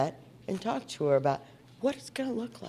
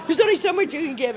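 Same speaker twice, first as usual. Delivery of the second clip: laughing; 9 semitones higher, 8 dB louder, faster than usual. Real, not acted. Laughing through retold reply.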